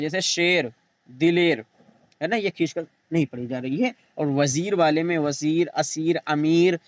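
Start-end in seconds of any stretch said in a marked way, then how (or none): 0.2-1.6 e vowel in "शेर, दिलेर", not ee; "दिलेर" ending in an e sound before r; ya majhool. Shown as a demonstration. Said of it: "खींच कर नहीं पढ़ी जाती". 5.2-6.8 slow, drawn-out ee in "वज़ीर, असीर, अमीर"; teacher's list with a long ee in "वज़ीर"; stretched ya. Shown as a demonstration. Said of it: "ये सब खींच कर पढ़ी जा रही है".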